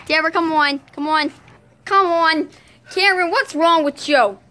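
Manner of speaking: loud, insistent hollering; play-acted exasperated shout; impatient calling. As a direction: chivvy lagging friends along loudly. Hurrying lagging friends.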